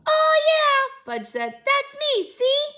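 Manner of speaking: put-on high, loud little-kid insistence; insistent toddler. Toddler Fudge insisting to his mother, stubborn. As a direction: insist like a stubborn small child.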